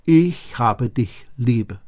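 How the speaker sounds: slow and gentle, stress on Ich; slow tender words. Shown as a demonstration. Pastor voicing God's love to the congregation, slow and tender. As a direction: let each word land slowly, lovingly.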